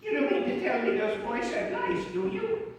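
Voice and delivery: mock a disbelieving lady, pitch leaping up at the end; lady audience member. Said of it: "a lady in the back might be saying".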